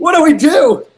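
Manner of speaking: high, loud shout. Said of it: "I shout".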